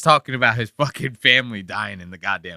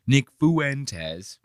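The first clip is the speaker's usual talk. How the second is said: mock British pronunciation; 2 semitones higher than usual. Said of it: "Brits say they pronounce shit so crazy".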